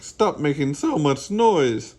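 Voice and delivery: scolding. Acted. Frank scolds noisy Bean.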